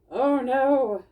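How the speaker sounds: loud, high alarmed squeak; startled by thunder; worried Tobin. Acted. Tobin hearing the thunder rumble, alarmed. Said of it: "Tobin said".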